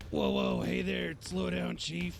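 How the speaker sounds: high squeaky mocking impression of a friend; squeaky falsetto mockery. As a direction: squeak it out in falsetto to tease him. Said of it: "I'll just do my best Victor impression".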